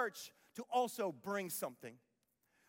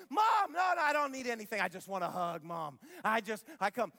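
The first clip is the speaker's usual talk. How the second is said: put-on kid wanting hug. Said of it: "Oh, wouldn't that be awesome?".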